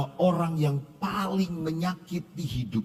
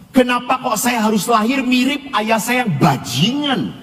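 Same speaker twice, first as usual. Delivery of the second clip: put-on a boy's pained questions, climbing higher and louder; anguished child; 3 semitones higher, 9 dB louder than usual. Abused boy questioning the priest, anguished and climbing louder. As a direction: let the hurt swell as he questions God.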